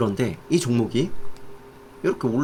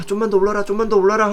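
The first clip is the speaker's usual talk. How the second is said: high, slightly louder mock plea; urgent wishing, pitched high; eager pleading; 8 semitones higher, 3 dB louder, faster than usual. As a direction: act out a trader willing the price up. Trader willing price higher.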